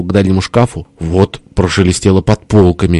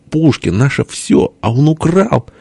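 high, stretched-out indignation; worked-up outcry; 8 semitones higher than usual. A narrator's reading. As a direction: proclaim it high and slow, outraged. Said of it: "распаляя сердце". (возмущённо, высоко и протяжно)

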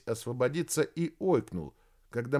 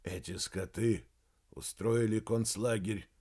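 gloomy; 2 semitones lower, 3 dB quieter than usual. Acted. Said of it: "угрюмо проговорил археолог".

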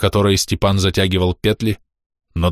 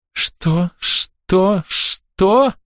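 rising ever higher, panicked; terrified woman wailing as she is held; 12 semitones higher, much slower than usual. A narrator's reading. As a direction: wail it faster and higher. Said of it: "запричитала Зиновья".

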